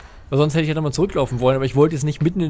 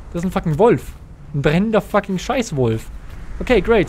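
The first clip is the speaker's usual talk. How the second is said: excited swearing; 5 semitones higher, 5 dB louder than usual. Real, not acted. Player spots burning giant wolf.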